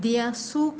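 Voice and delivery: very slow, careful German; deliberate German demo sentence; slow model sentence. Shown as a demonstration. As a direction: read it out slowly for learners. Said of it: "sentence اس کا ہے".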